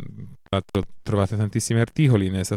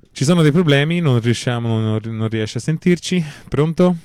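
loud calling; 4 semitones higher, 5 dB louder than usual. Real, not acted. Announcing a dropped call.

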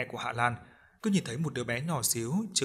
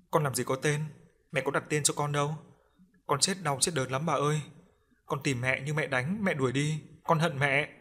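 put-on lightly raised child's voice turning bitter; a small ghost grieving, then resentful; pleading ghost child; 3 semitones higher than usual. Ghost child tells grandmother of its mother, mildly pleading.

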